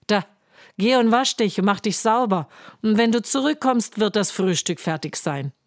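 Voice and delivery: loud, fast, brisk scolding; bossy giant's wife. Acted. Giant's wife shooing the giant away, loud and brisk. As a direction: hurry him off to wash.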